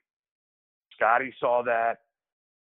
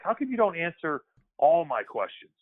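higher-pitched, retold demand for answers; puzzled challenge; 6 semitones higher than usual. Young player questioning his veteran teammate over lunch, puzzled challenge. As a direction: press him with a retold complaint.

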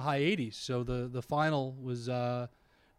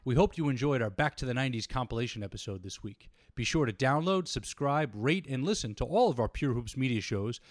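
scripted, evenly projected sign-off; podcast outro read. Acted. Host plugging the network's shows to listeners, podcast outro read. Reads the show's closing promo.

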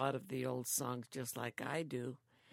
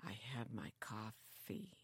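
unvoiced whisper, lower; whispered Bob; 4 semitones lower, 10 dB quieter than usual. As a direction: hush it like Bob at the breakfast table. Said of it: "Then he'll get the coffee and say".

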